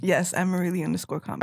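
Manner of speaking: talking while eating chips; words round a mouthful of chips; mouth full. Real, not acted. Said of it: "Sorry, I'm eating some chips right now".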